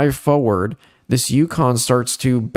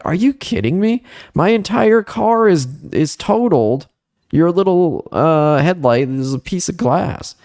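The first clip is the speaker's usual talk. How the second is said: exasperated, pitched way up; incredulous outrage; 7 semitones higher than usual. Retold or imitated. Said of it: "I'm like".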